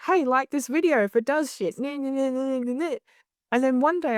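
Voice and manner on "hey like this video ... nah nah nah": lightly mocked like-this-video patter; hint of rote promo chant; mock video plug. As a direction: parody a routine plug, tailing into nonsense syllables. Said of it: "I was doing the".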